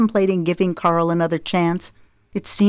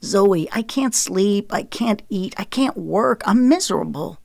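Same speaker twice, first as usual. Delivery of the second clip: plaintive; 4 semitones higher than usual. Acted. Husband pleads plaintively with estranged wife. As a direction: beg for pity. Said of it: "His tone became plaintive".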